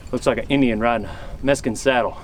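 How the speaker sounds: low, gravelly-free hushed western storyteller; a hint of a grizzled cowboy storyteller; western movie narration. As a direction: drop low like an old trail hand spinning a tale. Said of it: "but listen here".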